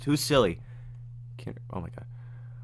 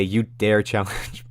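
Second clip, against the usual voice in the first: Dandy voice; much slower than usual. Retold or imitated. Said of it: "We gotta hear Dandy say".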